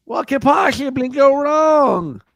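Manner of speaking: high, slow, spitty nerd shout. Pretend. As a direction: belt the catchphrase like a nerd. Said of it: "the nerd voice you do".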